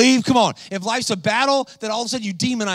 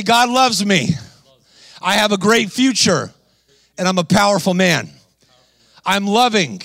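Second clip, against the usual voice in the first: confident declaration. Shown as a demonstration. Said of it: "I'm gonna have you say three things".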